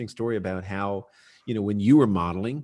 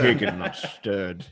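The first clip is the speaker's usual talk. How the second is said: slow, suave spy quote; Bond line; 4 semitones lower, much slower than usual. Pretend. Host joking with a famous spy line, slow suave. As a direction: drawl it like James Bond.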